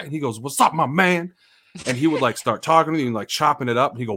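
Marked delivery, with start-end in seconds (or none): 0.4-1.3 a hint of an upbeat street greeting; imitating Cigarette. Retelling a friend's greeting, lightly voiced. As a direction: greet him big and friendly.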